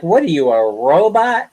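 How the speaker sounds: amused disbelief; laughing at the stubborn attendant. Retold or imitated. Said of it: "I looked at him like".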